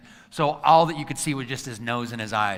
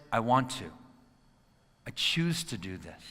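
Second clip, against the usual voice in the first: 1 sincere choice; 2 semitones lower, 3 dB quieter than usual. Shown as a demonstration. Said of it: "But it's".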